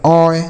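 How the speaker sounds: ओय as one gliding "oy" sound; pronunciation of ओय. Shown as a demonstration. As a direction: model ओय as in "boy". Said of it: "ऐसा पढ़ेंगे".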